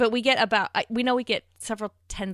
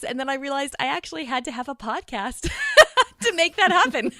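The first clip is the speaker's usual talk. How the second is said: laughing through the words; real laugh breaking into the line; 5 semitones higher, 6 dB louder than usual. Real, not acted. Telling how the podcast began, laughing.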